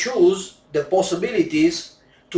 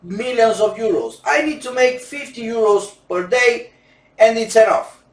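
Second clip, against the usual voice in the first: higher, lightly voiced asking client; a hint of a pleading fan, pitched up; imitating a modest client; 7 semitones higher than usual. A client asking the roulette teacher, lightly voiced and higher. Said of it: "Everybody asks me that".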